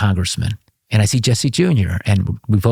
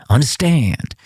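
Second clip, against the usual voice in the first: a short, knowing "Understand." spoken as a statement, falling at the end; cryptic code reply; 4 semitones higher, slower than usual. Retold or imitated. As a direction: answer "Understand." like a man on a guarded line. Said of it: "Talk to me in code".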